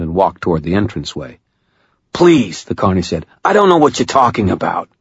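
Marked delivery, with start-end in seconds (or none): 2.1-2.6 higher-pitched plea; frightened pleading. A narrator's reading. Carney begs the woman grabbing him, pleading. 3.4-4.9 high, pleading protest; frightened denial. A narrator's reading. Carney denies all knowledge to Murphy, frightened.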